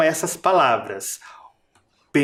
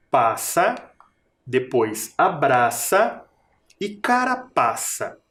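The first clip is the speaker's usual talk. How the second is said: slow demo words; slower than usual. Shown as a demonstration. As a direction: rhyme words read slowly.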